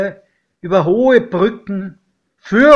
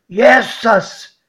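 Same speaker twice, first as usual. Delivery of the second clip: higher, louder exclamation; startled cry; 6 semitones higher, 6 dB louder than usual. A narrator's reading. Godfather sighting the smoking brown worm, crying out. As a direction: cry out in alarm. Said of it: "schrie mein Pate".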